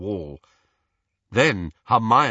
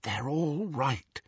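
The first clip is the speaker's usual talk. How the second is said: slow, softer breathy whisper; 4 semitones higher, 6 dB quieter, slower than usual. A narrator's reading. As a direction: whisper it slowly to calm him. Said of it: "she whispered".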